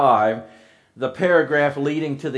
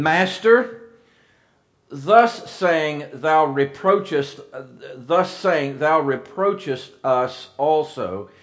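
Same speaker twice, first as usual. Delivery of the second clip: sarcastic Master; slower than usual. Acted. Lawyer mocking Jesus, slow and sarcastic. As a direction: sneer the title, draw it out. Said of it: "you can read the sarcasm into this".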